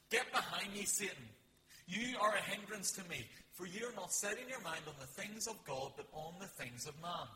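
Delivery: loud, forceful rebuke of a follower; a sharp, commanding rebuke that fills the room; stern rebuke. Acted. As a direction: thunder it out as a command. Jesus rebukes Peter as Satan.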